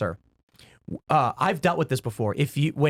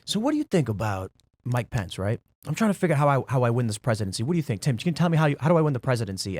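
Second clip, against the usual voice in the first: calm guest voice; 3 semitones lower, faster than usual. Retold or imitated. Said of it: "he's talking like this".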